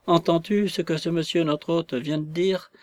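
a hammed-up tearful wail; near-sobbing lament. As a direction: lament to your wife as if about to sob. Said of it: "s'écria-t-il presque avec des sanglots".

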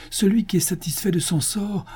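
whispered, high; whispered quote. A narrator's reading. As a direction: breathe the saying as a secret. Absalom cite la Mishnah. (citation chuchotée)

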